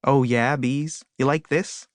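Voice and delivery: cocky come-on with rising questions; tease, lifting each question at the end; flirty show-off. A narrator's reading. Flower showing off to enamored bees, flirty.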